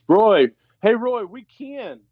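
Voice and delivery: imitating a fan shouting to Roy from the stands, drawn out; imitated fan yell. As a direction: holler for Roy's attention, then stretch it out slow. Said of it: "somebody begins to yell".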